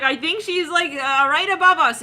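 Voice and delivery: high, loud, comic alarm; hammed-up panic, pitched high; mock freaking out. He's freaking out, acted quote.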